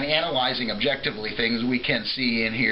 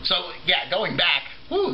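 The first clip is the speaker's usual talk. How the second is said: tipsy; 4 semitones higher than usual. Real, not acted. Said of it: "this is the alcohol keeping me off topic".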